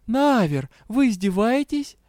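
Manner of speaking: direct challenge. A narrator's reading. Heroine asking the dragon directly, challenging. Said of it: "прямо спросила я".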